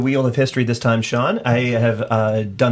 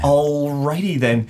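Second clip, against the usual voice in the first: Jim Carrey quote; slower than usual. Pretend. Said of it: "it's gonna be Jim Carrey".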